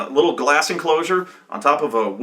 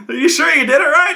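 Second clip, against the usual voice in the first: high, louder sceptical challenge; acted accusation; 14 semitones higher, 6 dB louder than usual. Game master as teammates doubting the player, acted accusation. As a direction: press him in mock exasperation.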